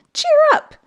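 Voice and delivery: high, loud bright shout; cheerful cry. A narrator's reading. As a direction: lift everyone's spirits. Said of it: "cried the little toy clown".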